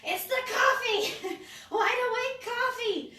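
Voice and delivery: high, loud and drawn out through laughter; giddy laughing outburst; laughing exclamation. Real, not acted. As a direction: crack up while calling it out slowly. Laughing at viewer's wide-awake comment.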